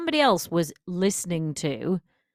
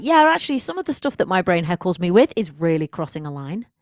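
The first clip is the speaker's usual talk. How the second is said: emphatic realization; 7 dB louder than usual. Retold or imitated. Listener realizes their inner heckler goes too far, loudly. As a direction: blurt it out as the penny drops. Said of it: "if you're like".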